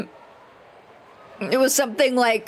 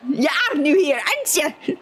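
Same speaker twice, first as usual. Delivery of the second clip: mock NPC greeting; 4 semitones higher than usual. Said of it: "is he supposed to be like".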